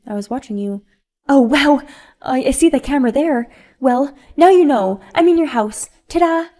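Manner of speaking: high, loud, gleeful confession; brazen spoiled mom. Acted. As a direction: show off the break-in with a flourish. Sophia brazenly admits break-in.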